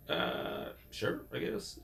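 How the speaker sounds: unsure, barely voiced; hesitant whisper. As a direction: shrug it off in a whisper. Timid reply in an acted quote.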